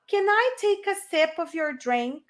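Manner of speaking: slow, clear English model; slow model sentence. Shown as a demonstration. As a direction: enunciate slowly for repetition. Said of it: "Listen and repeat". (frase modelo lenta em inglês)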